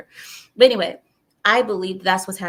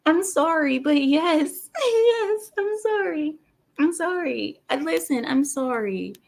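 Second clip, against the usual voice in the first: laughing helplessly through apologies, much higher; squeaky giggles, can't stop apologizing; laughing fit; 6 semitones higher than usual. Real, not acted. Host cracking up at her own slip, real laughter.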